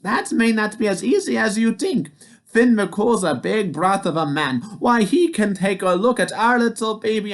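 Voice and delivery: high, sweet wife voice; Oogna's voice. A narrator's reading. Wife boasting to the giant, high sweet voice. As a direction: tease the giant gently. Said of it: "said Oogna".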